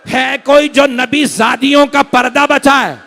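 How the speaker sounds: slow, high, loud plea with drawn-out words; crying out. Retold or imitated. Preacher voicing Hussain's call for help at Karbala, crying out. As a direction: cry out for help at full force. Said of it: "चीख चीख के कह रहे हैं".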